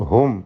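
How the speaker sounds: ഹും closed on a plain m; clear unhummed meem. Shown as a demonstration. Teacher shows students clear meem, ഹും without hum. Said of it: "സാക്കിന മീമിനെ മണിച്ചു പോകരുത്".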